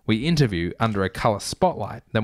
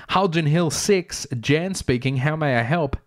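receptionist; 5 semitones higher than usual. Retold or imitated. Voicing receptionist Jan.

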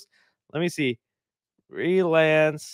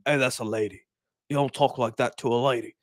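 lower, gruff tough-guy scolding; Jason Statham impression; 5 semitones lower, 3 dB quieter than usual. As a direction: growl it like an action hero defending a lady. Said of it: "Jason Statham goes".

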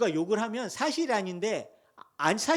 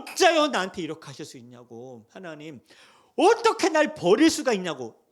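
lament; 5 dB louder than usual. Retold or imitated. Voices lament to God.

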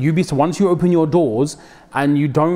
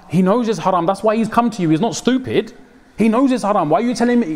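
exasperated; 6 semitones higher than usual. Real, not acted. Preacher scolding the harsh advisor.

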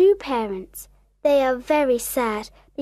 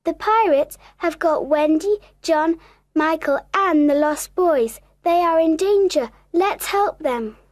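slightly raised, urgent fairy messenger; alarmed Tinker Bell; 4 semitones higher than usual. Acted. Tinker Bell telling Peter of danger, urgent. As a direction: sound the alarm with some urgency.

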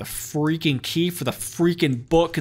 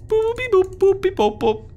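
high beeping robot chatter; 5 dB louder than usual. Pretend. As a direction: beep and boop like a little machine. Robot beeps again.

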